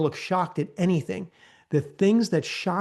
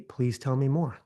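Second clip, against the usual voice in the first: calm inviting. Shown as a demonstration. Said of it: "you're just gonna say".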